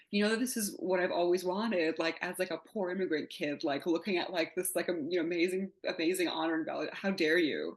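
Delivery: mildly indignant, lively retelling; mock-outraged plea to the agent; retold indignation. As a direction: protest as if cruelly teased, keeping it light. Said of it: "I was so mad at him".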